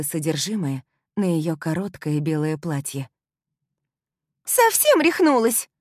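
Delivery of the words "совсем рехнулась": much higher, louder furious shriek. Acted. Sam shrieks after coffee hits her dress, shrill screech. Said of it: "завопила стерва".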